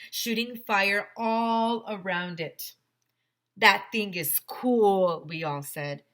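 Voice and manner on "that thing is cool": put-on thrilled kids. A narrator's reading.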